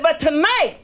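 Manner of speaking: builds up high to a fervent church cry; testify, climbing to a high peak on Jesus; the reformed whore swears off the street before the church, climbing high and fervent; rising testimony. Acted.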